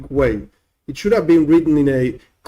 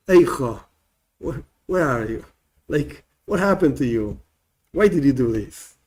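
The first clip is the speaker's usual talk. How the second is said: lamenting; 3 semitones lower, 3 dB quieter than usual. Acted. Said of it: "God started crying".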